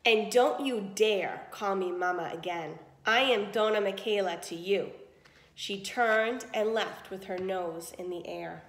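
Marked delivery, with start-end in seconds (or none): 0.1-4.9 icy voice. Acted. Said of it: "in an icy voice".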